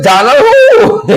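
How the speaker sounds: Donald who, slow and very high; high, drawn-out mock confusion; mock baffled question. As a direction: play dumb in a squeaky high voice. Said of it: "Robert said".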